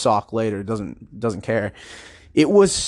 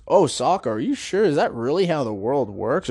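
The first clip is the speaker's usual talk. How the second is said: lightly voiced children's presenter; nice children's host. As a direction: imitate a nice host gently doubting his puppet. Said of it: "pretending to be the nice host".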